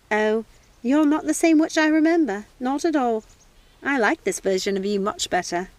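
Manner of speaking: lightly voiced old lady; old housekeeper. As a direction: tease her fondly. Housekeeper speaks.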